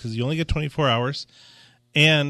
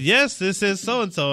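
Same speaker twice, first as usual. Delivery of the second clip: put-on a light Russian accent, slower and a bit higher; 6 semitones higher, slower than usual. A mild Russian accent, imitating the client's caller on the phone. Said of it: "was that the Russian accent just now".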